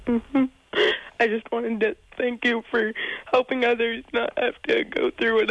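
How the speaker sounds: choked up, holding back tears; crying. Real, not acted. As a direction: speak through real tears. Caller tearing up over dad.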